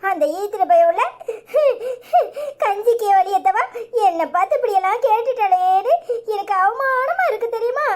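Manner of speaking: comic tearful grumbling; mock sobbing. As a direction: sob through the grievance, hammed-up. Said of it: "முதல்ல அழுவே நிப்பாட்டிட்டு சொல்லு". (நடிப்பு அழுகையுடன் புலம்பல்)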